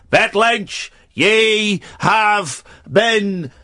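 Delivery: grand presenter reveal, lightly voiced; Eamon Andrews. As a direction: announce it like a TV host. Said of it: "I'm Eamon Andrews".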